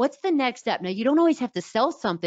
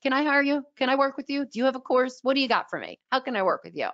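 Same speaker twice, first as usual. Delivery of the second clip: higher, eager client asking; lightly voiced eager client; 5 semitones higher, faster than usual. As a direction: mimic a keen client begging to hire you. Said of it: "And they're like".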